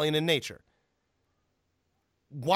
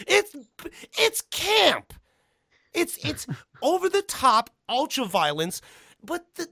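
much higher, louder excited rant; excited, high-pitched; 13 semitones higher, 5 dB louder, slower than usual. Real, not acted. Excited rant about campiness.

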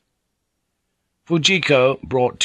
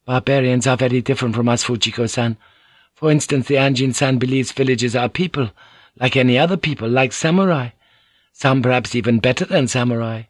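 Mariko's voice; 4 semitones higher, faster than usual. Acted. Mariko greets Blackthorn, higher courteous lady's voice.

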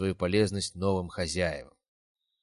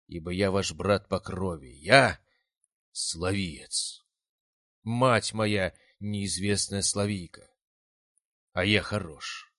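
fiery speech; much slower than usual. A narrator's reading. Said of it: "громкую проникновенную речь".

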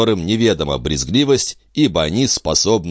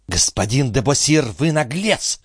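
hissing; 9 semitones higher than usual. A narrator's reading. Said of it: "прошипела Николь".

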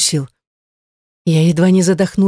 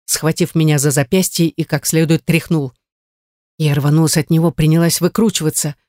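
usual speaking voice

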